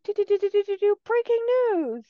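high sing-song news jingle; parody news anchor. Retold or imitated. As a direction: belt the breaking news jingle. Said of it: "news anchor voice was pretty good".

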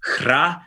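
hra said alone with a rolled r. Shown as a demonstration. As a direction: roll the r in hra. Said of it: "We have H R A".

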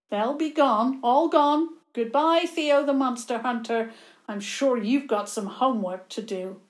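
loud gloating farewell; bossy little princess. Acted. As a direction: crow over your win. Villain's parting taunt.

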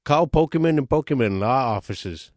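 lightly put-on injury-lawyer commercial read; mock lawyer ad. Spoofing a Pokemon law officers' commercial, mock announcer read. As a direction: pitch the law firm like a TV ad.

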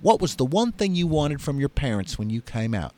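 lightly voiced Southern lady; Mississippi accent. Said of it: "how's my Mississippi accent".

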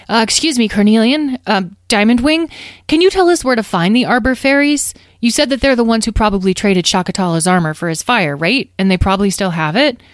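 polite, quick questioning with a lifted voice; a hint of a hesitant kid; young dragon asking. Child dragon questions the fairy.

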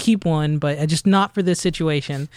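polite retelling of a phone reply; lightly put-on polite service tone; customer service voice. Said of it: "my best customer service voice".

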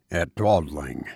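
turning the name over in his mind; quiet thoughtful echo. A narrator's reading. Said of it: "he echoed thoughtfully".

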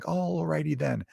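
slow, drawn-out goofy copy of a movie line; imitating three-year-old's catchphrase. Dad mimicking his son parading round the house, goofy. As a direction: stretch the first word, rising high then falling. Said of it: "being like".

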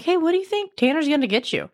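retold eager question. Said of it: "I'm like".

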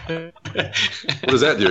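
slow deadpan Mitch Hedberg delivery; drawn-out deadpan comic voice; Mitch Hedberg impression. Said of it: "Mitch Hedberg joke".

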